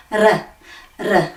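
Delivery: r with a little vibration at the top of the mouth; brief tapped Māori r. Shown as a demonstration. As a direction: flick the tongue for r. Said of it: "make a little vibration at the top".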